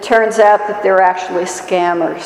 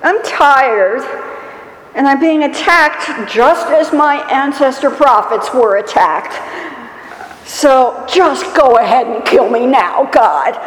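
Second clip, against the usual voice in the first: mock whining prophet, pitch a little raised; whiny pity party; 3 semitones higher than usual. Elijah complains to God, a mock whine. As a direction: whine it out like a self-pitying prophet. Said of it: "he has himself a little pity party".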